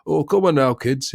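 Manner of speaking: lightly put-on northern English voice; northern English accent. Host mimics a film's northern father to the kids, northern English accent. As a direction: imitate a northern English dad. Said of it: "how to do this northern voice".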